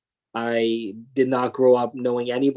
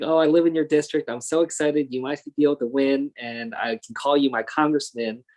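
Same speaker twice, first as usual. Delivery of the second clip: retold excitement; 3 semitones higher than usual. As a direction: quote her eagerness, mildly animated. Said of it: "she was so excited".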